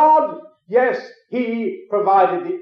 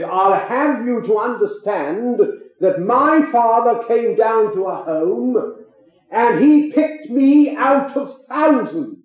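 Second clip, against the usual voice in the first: nasty retort; 3 semitones higher, slower than usual. Retold or imitated. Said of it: "John got very, very nasty".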